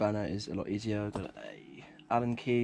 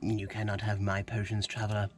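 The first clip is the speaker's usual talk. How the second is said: proud merchant guarding his wares; gruff proud merchant pitch; 2 semitones lower than usual. Acted. Potion seller meme skit reply.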